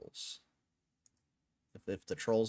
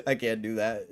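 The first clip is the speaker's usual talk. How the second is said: laughing; 3 dB louder than usual. Real, not acted.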